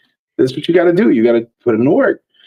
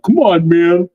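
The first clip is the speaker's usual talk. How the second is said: slightly higher, half-annoyed plea; mild exasperation; 4 semitones higher, slower than usual. Retold or imitated. Collector ribbing a friend who outbid him, mildly exasperated. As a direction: protest to a friend without real anger. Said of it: "you're not that mad, but you're kinda like".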